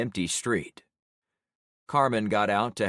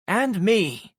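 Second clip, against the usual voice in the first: loud eager cry; yelled; 11 semitones higher, 6 dB louder than usual. A narrator's reading. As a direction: shout it out from across the room. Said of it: "Carmen yelled from her spot".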